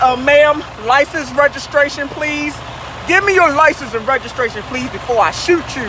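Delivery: a lightly voiced stern cop; a hint of a cop at a traffic stop; police officer. Cop at a traffic stop demands license and registration, lightly mocked. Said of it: "they be like".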